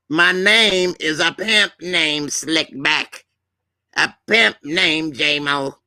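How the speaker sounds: slow, insistent self-introduction; put-on pimp character. Correcting someone who shortened his name, slow and emphatic. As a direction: stretch each word of the name, grandly.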